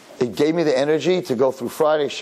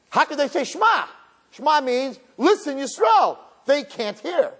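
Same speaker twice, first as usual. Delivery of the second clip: anguished outcry; 13 semitones higher, slower than usual. Retold or imitated.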